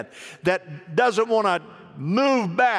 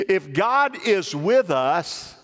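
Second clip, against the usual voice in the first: slow, deliberate reading at usual pitch; measured scripture prompt; slower than usual. Real, not acted. Preacher prompting the congregation to finish the verse, measured. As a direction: draw it out and leave it open for an answer.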